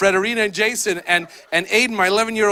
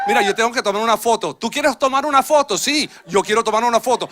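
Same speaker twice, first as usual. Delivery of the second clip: quick Spanish exchange; faster than usual. Retold or imitated. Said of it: "Not once did I have to speak in English".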